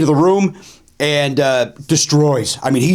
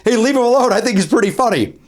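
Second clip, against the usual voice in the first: higher-pitched imitation of an audience member objecting; protesting defender; 7 semitones higher than usual. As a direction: speak up in the comic's defense. Sailor stands up for the comic.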